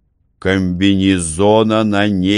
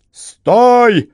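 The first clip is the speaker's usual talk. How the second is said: much higher loud stop; shout; 6 dB louder than usual. A narrator's reading. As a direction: bark the halt at fugitives. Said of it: "закричали римляне". (громкий крик римлян)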